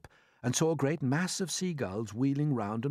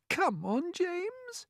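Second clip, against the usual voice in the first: coaxing; much slower than usual. A narrator's reading. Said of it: "coaxing him".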